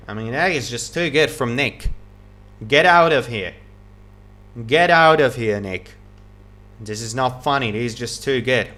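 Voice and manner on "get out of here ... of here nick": loud, incredulous cry at a great shot; amazed exclamation. Real, not acted. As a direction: blurt it out in disbelief. Amazed commentator at a winner.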